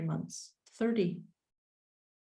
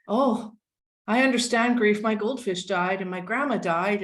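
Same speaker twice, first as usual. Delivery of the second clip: hammed-up, louder eager claim of understanding; mock sympathy; 2 semitones higher, 6 dB louder than usual. Mocking people who compared her loss to a goldfish, loud and eager. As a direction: parody the people who think they get it. Mocking others' grief stories.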